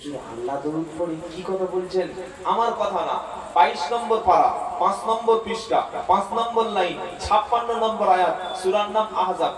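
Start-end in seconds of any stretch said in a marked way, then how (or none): 3.5-9.5 each phrase clipped apart, with pauses; staccato. Shown as a demonstration. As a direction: chop the reference into separate bits. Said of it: "এই যে কেটে কেটে বলছি".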